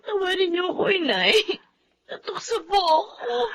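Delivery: soft, crying plea; tearful pleading. Acted. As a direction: daughter begging her mother. Daughter begs mother's forgiveness. (umiiyak na pagmamakaawa)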